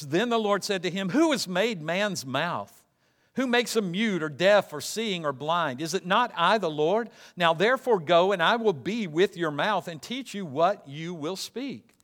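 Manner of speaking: preacher proclaiming the Lord's words; scripture reading. A narrator's reading. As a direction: read out God's rebuke with authority. Reads scripture with raised force.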